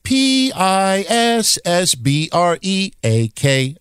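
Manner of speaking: each letter spelled slowly and separately, P I S S B R E A K. Shown as a demonstration. Host spelling the anagram to his audience, slow and deliberate. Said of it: "And then I was like".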